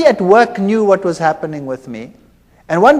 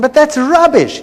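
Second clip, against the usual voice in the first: higher, louder scoff; dismissive retort; 8 semitones higher, 5 dB louder than usual. Retold or imitated. Scientist dismissing his colleague's creation claim. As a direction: wave the idea away.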